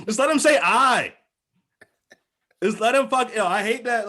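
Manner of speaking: loud, high-pitched protest; exasperated outburst. Real, not acted. Complaining about Jar Jar's grammar, exasperated and loud. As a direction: burst out high and loud in disbelief.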